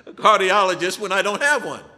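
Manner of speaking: real laughing incredulity; amused disbelief. Real, not acted. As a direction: laugh through the absurdity of it. Laughing at his own absurd predicament.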